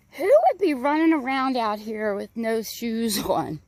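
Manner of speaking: put-on a young boy wondering aloud; little kid voice. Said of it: "he said this cutest thing".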